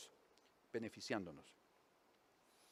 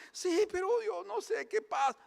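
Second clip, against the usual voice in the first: crying husband; 14 semitones higher, 3 dB louder than usual. Acted. Husband in the joke whimpers to his wife, high and tearful. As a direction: whine out the fear like a sulking husband. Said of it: "el marido está llorando".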